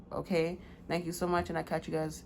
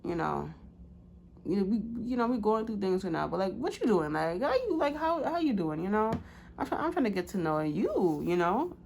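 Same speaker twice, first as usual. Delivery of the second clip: mocking a flirty cheater; 4 semitones higher than usual. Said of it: "be like".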